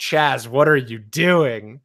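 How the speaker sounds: mild yell with a scream edge, held down. Voicing a character screaming at Chaz in a fire: Titus screaming. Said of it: "Titus screams".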